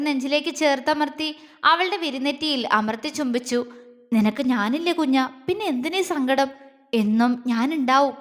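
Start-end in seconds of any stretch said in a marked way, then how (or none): 4.1-8.1 understated tender reassurance; thin, faltering voice. Acted. Man comforting his grieving beloved, gently faltering. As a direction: comfort gently, a slight catch in it. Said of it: "നേർത്ത സ്വരത്തിൽ അവൻ പറഞ്ഞു ... സ്വരം ഇടറിയത്".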